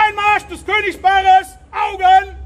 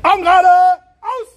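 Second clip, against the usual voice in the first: barked drill commands; 11 semitones higher, 4 dB louder, faster than usual. Real, not acted.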